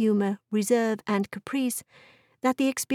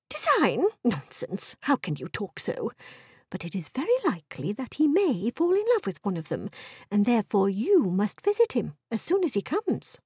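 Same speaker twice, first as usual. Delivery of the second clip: dismissive wife. Acted. Wife voiced in story.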